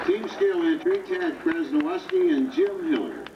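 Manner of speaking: rising excited announcement; airshow commentator. Acted. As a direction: announce the team with a lift. Announcing an entry.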